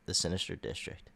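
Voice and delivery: grand announcer voice selling a city; dramatic promo read. Acted. Host reading the Sinister District intro aloud, trailer style. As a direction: pitch it like a movie trailer.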